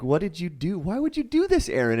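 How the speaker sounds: mock yell. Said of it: "he kinda yells at Aaron".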